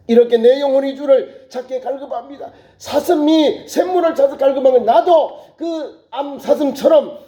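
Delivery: high-pitched, impassioned prayer; fervent plea. Acted. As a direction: cry out to God with urgent longing. Voicing psalmist's plea to God. (간절히 부르짖는 기도)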